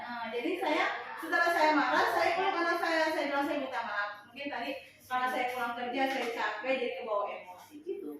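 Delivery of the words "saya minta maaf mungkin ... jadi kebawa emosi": soft, lower motherly explanation; subdued retold apology; gentle apology. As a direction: own up quietly to your child. Mother explaining herself to her child.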